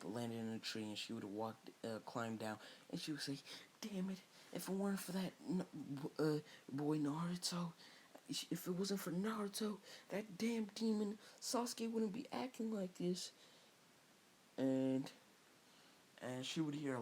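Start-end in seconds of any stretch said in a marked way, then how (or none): 3.8-13.3 put-on much higher frustrated girlish voice; Sakura voice. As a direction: curse it high and bitter. Sakura curses alone in forest.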